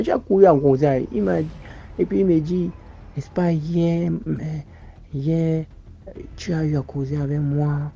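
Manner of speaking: angry accusation. Retold or imitated. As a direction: accuse him hotly of wasting your time. Voicing the angry marabout's reply. (accusation en colère, voix haute et forte)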